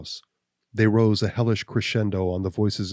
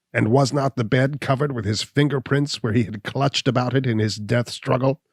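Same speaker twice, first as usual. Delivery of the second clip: higher, louder indignant outburst; crying out; 4 semitones higher, 4 dB louder than usual. Acted. Gall protesting innocence to Abner, higher and louder. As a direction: fling the challenge back at him. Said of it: "cried Gall".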